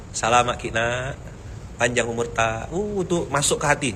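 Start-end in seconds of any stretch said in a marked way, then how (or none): 0.1-2.7 local blessing. Retold or imitated. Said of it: "suka dengar orang sini doakan".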